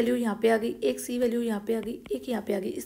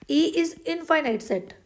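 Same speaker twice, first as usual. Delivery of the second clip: slow dictation; 4 semitones higher, much slower than usual. Shown as a demonstration. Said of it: "dictating case statement".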